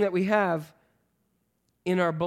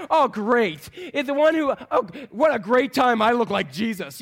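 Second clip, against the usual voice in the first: mock enthusiasm, pushed a bit louder; sarcastic; 3 semitones higher, 4 dB louder than usual. Thomas, who looks like Jesus, facing danger, mock-delighted sarcasm. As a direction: play up the sarcastic "great". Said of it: "You hear the sarcasm in there?".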